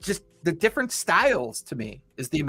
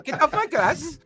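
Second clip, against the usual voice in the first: put-on grumpy old townsman; 8 semitones higher than usual. Grumpy townsman chasing them off.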